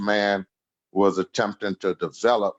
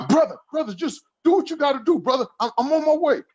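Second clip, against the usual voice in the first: much higher, quick put-on voice; imitating Bashir in a rush; faster than usual. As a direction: rattle it off high like a friend brushing you off.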